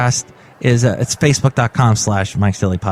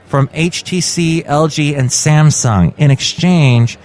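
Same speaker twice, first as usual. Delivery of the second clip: measured news-article reading; read-aloud podcast news item. Acted. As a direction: read the report out to listeners.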